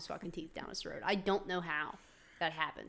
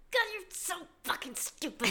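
exasperated; 10 semitones higher than usual. Retold or imitated. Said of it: "And I'm like".

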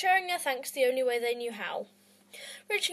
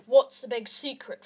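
booming; 5 dB louder than usual. Acted. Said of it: "a man's booming voice".

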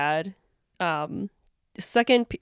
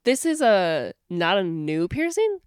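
surprised doctor. Retold or imitated. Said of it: "then she goes".

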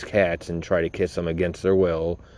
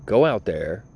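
fed-up rant; 4 semitones higher than usual. Real, not acted. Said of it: "ranting at critics".

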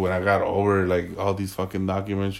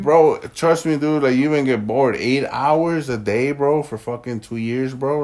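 frat bro; 4 semitones higher, 4 dB louder than usual. Real, not acted. Frat bro insisting, building.

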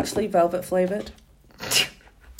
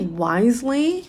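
very slow, drawn-out question; incredulous; 2 semitones higher, much slower than usual. Real, not acted. Friend questioning the odd word choice in disbelief. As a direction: stretch it in disbelief.

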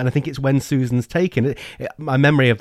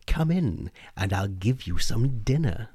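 soft coaxing witch invitation; 4 dB quieter than usual. Acted. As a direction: beckon him in sweetly. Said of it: "And the witch said".

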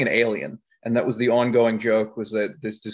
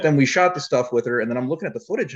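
ordinary talk

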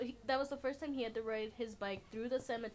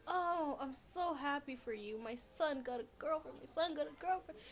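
higher-pitched gushing imitation of a happy mom; delighted mom; 4 semitones higher than usual. Mom congratulating her son on his girlfriend, delighted. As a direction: play a thrilled mother, voice lifting. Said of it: "And the mom's like".

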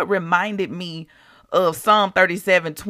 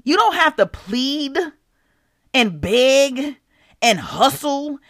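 raised, emphatic retold preaching; 5 semitones higher than usual. The Lord reminding her about money, emphatic preaching. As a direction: preach it higher, pausing between the pleading words. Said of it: "he was preaching to me through me".

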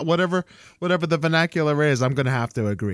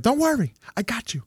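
reassuring; 6 semitones higher than usual. Retold or imitated. Sister reassures downed player.

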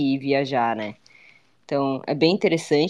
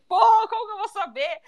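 laughing; faster than usual. Retold or imitated. Laughing retold exasperated reply.

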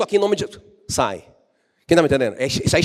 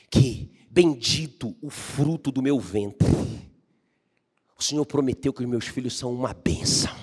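grateful prayer; 5 semitones lower than usual. Shown as a demonstration. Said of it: "Aí você ora assim".

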